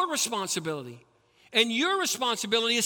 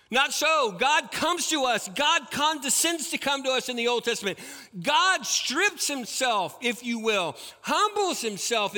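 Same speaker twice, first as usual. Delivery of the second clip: raised, higher declaration; forceful preaching; 5 semitones higher, 3 dB louder than usual. Real, not acted. Preacher rebutting Islam to congregation, forceful raised voice. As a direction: proclaim it over the crowd.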